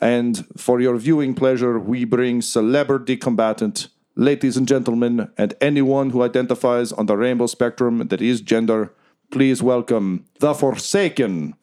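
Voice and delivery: milk each word like an arena host; announcer. Acted. Announcer continues introduction.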